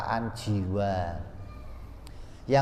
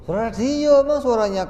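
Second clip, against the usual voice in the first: high-pitched, louder mock exclamation; mock objection; 11 semitones higher, 5 dB louder, faster than usual. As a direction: pitch it way up like a silly wrong answer. Acting out a mistaken answer. (bantahan pura-pura bernada tinggi)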